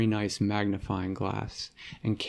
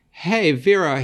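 put-on little boy calling; 7 semitones higher, 7 dB louder than usual. Little brother Mikey calls out.

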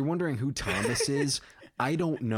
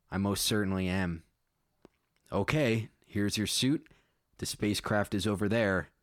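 measured read-aloud storytelling; story narration; faster than usual. A narrator's reading. Writer reading own space story to listeners, measured narration. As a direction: read it out plainly as prose.

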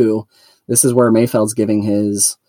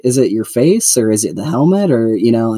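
pushy Mayfeld voice. Retold or imitated. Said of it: "where he's like".

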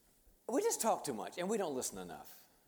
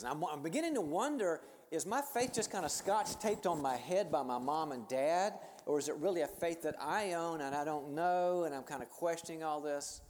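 raised pitch, louder, building doubt; earnest retold questioning; 4 semitones higher, 4 dB louder than usual. College student questions her inherited faith to a mentor, earnestly. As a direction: imitate a student wrestling aloud with doubt.

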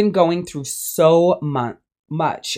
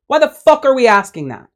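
higher, louder exasperated repeat; exasperated outburst; 7 semitones higher, 4 dB louder than usual. Real, not acted. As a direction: throw the question back in disbelief.

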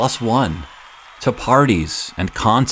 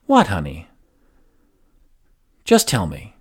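a touch of gentle coaxing mom; lightly voiced tender mother. Mother coaxing her son to speak, mildly gentle. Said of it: "in that gentle mom way".

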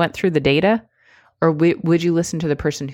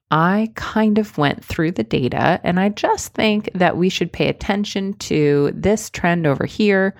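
weak hedging; 3 semitones higher than usual. Shown as a demonstration. Coach demoing the weak version for viewers. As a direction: say it like you doubt yourself. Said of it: "listen to the difference".

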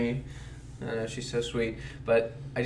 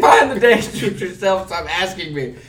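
higher, louder burst of comic annoyance; mock exasperation; 6 semitones higher, 7 dB louder than usual. Telling a pestering friend to find it himself, exasperated. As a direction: snap back in playful exasperation.

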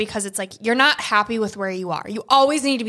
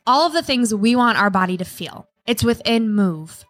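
ad read. Acted. Ad read over music.

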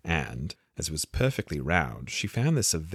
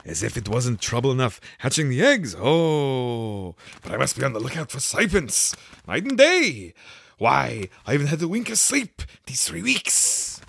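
fussy pigeon; 6 semitones higher, 5 dB louder than usual. A narrator's reading. The pigeon complains to Alice about serpents, high and fussy.

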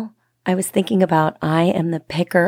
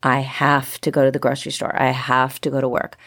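lower, grumbling "have to" voice; grudging complaint; 3 semitones lower than usual. Shown as a demonstration. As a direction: sound burdened by chores. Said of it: "instead of saying".

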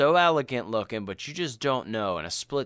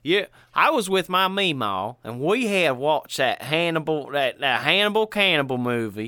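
lightly voiced Southern fella telling a story; a touch of Southern storyteller. Cohost playing a Southern fella recalling a scary movie, light Southern voice. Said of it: "I like to do the Southern fella".

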